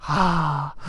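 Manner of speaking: acted long, breathy sigh; deep sigh. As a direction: let out a deep sigh, in character. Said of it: "takes a deep sigh".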